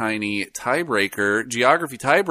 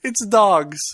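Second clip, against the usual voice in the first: laughing; 10 semitones higher than usual. Real, not acted. Laughing at trivia answer.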